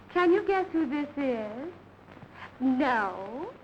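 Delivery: slow, coy phone flirtation; coy flirting. Acted. Woman flirting by phone with an admirer, coy. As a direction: tease him playfully, drawing the words out.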